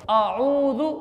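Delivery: आऊज़ु with ain after alif; correct pronunciation. Shown as a demonstration. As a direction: say आऊज़ु as a-'oo-zu, long oo. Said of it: "एक अलिफ है और उसके आगे आइन है". (आऊज़ु, आइन के साथ)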